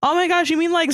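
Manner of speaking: high, hammed-up gasping disbelief; mock shock. A narrator's reading. Starpaw hears of the mean cat, high mock shock. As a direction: react as if scandalised, pitch way up. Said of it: "Starpaw shocked".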